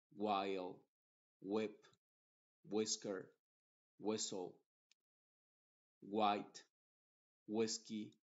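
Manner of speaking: what, when, white each start on a plain W with no H breath; WH words with silent H. Shown as a demonstration. Teacher reads WH words, H left silent. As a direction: say what as wat, lips rounded first. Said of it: "la W se pronuncia como W y la H es muda".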